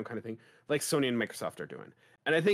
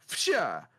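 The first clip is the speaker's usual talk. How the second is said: quick whooshing claw sound effect; imitated claw slash. Describing a game trailer to co-hosts, imitated claw slash. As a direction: mouth a swishing "fsha" for claws coming out. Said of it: "like, Wolverine going".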